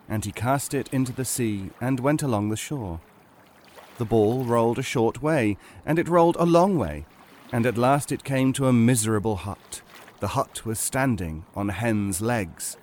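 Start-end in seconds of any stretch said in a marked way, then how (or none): none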